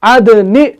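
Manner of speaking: अदनि with the nun carrying kasra; correct reading. Shown as a demonstration. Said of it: "जेर में तब्दील हुई".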